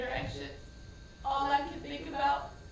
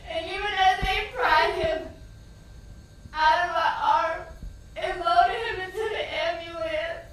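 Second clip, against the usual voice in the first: raised retelling; 2 semitones higher, 7 dB louder than usual. Retold or imitated. Son loaded into ambulance.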